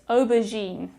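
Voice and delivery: aubergine with its G softened to a French "zh"; soft G. Shown as a demonstration. Teacher asking learners to pay attention, aubergine with soft G. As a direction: say aubergine carefully, "zh" in the last syllable. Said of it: "Pay attention to this".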